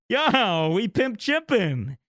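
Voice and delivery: high, slow, laid-back slang greeting; cool dude greeting. Pretend. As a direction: drawl it out like a chill stoner. Greeting to alien.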